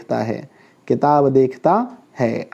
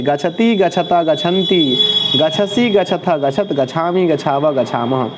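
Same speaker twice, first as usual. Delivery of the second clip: conjugation recitation; 2 semitones higher than usual. Shown as a demonstration. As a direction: run through the verb table in rhythm. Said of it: "हम गच्छति बोलते थे".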